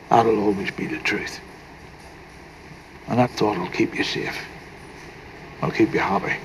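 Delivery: low, soft, unhurried reassurance; tender reassurance. Acted. Grandfather comforts grandson before he moves away, tenderly. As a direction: speak softly and low, with pauses between thoughts.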